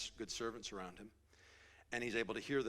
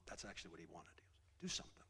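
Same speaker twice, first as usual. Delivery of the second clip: whisper; 5 semitones lower, 9 dB quieter, faster than usual. Real, not acted. Preacher drops to whisper.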